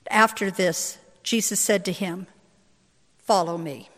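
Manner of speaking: firm, deliberate reading to a congregation; scripture reading. A narrator's reading. Pastor reads Gospel of John aloud, solemn scripture reading. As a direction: read it out with solemn emphasis.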